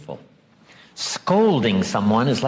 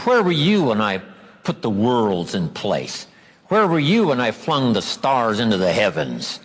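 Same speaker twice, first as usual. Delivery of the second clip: sarcastic God. Retold or imitated. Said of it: "A bit of sarcasm".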